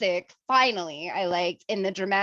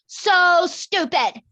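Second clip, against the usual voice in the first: high, loud, drawn-out laughing words; cracking up while saying it; laughing verdict; 9 semitones higher, 5 dB louder, much slower than usual. Real, not acted. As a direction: drag it out slowly through real laughter.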